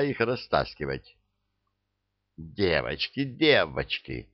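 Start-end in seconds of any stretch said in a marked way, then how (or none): 2.4-4.3 soft pleading, drawn out; умоляюще. Acted. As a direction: coax them gently to stop. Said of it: "умоляла фрейлина". (мягко, умоляюще)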